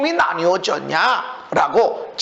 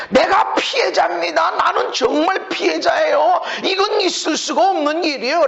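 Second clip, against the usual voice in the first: mock victim plea; 4 semitones higher than usual. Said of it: "라고 하는데".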